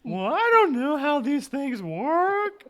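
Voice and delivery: drifting, wistful ghost. Acted. Plays the ghost.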